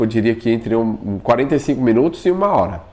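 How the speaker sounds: ordinary talk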